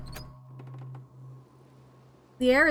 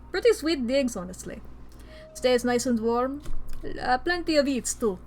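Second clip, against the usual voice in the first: Russian goat. Acted. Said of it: "but I'm Russian now".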